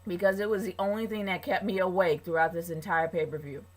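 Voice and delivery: talking while chewing gum; words round a wad of gum. Real, not acted. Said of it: "I'm chewing gum right now".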